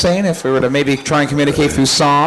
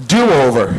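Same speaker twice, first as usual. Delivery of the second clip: put-on childish yell; 5 semitones lower than usual. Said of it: "Remember what you'd yell?".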